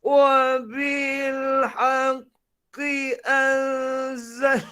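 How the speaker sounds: slow, sagging Quran recitation; sluggish heavy voice. Shown as a demonstration. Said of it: "Suara lembab".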